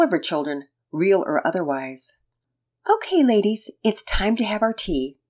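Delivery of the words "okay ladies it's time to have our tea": nurturing mom voice. Acted. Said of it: "In her best mom's nurturing voice".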